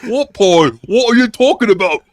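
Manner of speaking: mock bewildered "what are you talking about"; incredulous. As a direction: play it baffled and high. Mocking someone's confused reply.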